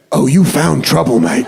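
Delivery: cool British threat. Retold or imitated. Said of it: "It sounded so cool".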